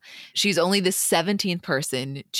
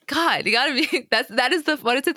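normal talking voice

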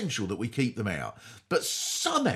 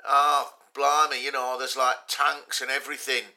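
loose, louder rambling raver voice; Bez explaining strategy; 5 dB louder than usual. Retold or imitated. Bez from a band explains war strategy, mock raver ramble. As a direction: mumble it like a spaced-out dancer. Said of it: "he would explain the strategy was".

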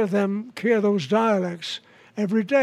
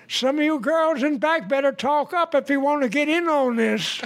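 lightly voiced preacher, pitched up; wedding preacher; 5 semitones higher than usual. Preacher to brides at the back, lightly voiced and higher. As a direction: call it out higher, as a preacher would. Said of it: "And the preacher said".

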